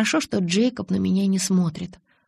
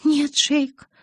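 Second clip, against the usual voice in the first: higher, whimpering plea; whimpering, holding back tears; 7 semitones higher, 4 dB louder than usual. A narrator's reading. Bella begging Jacob, higher, near tears. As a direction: plead through held-back tears. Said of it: "заскулила я, сдерживая слёзы".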